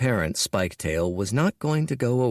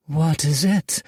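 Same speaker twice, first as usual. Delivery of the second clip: higher, brighter female character voice; Red Fang asking, higher and louder; curious Red Fang; 7 semitones higher, 4 dB louder than usual. A narrator's reading. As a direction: concubine asking her lord what's wrong. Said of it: "said Red Fang".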